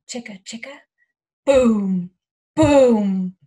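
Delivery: lively storybook reading with big chants; reading to children. Acted. Teacher reads Chicka Chicka Boom Boom to children, lively. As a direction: read it aloud with playful drama. Reads picture book aloud.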